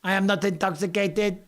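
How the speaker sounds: lightly put-on voice, drawn out on human being; attempted impression. Quoting a plea to be seen as human, attempted impression. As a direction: stretch the words in a put-on voice. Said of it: "No, I can't do it right now".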